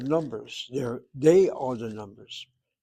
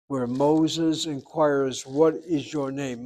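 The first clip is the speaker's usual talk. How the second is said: slow solemn reading; slower than usual. Acted. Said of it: "slow dramatic reading".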